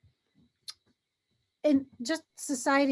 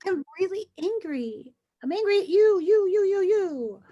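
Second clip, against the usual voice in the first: louder, higher finger-pointing at you; mock angry; 5 semitones higher, 4 dB louder than usual. Pretending to tell someone off, mock angry. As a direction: jab each you in mock anger.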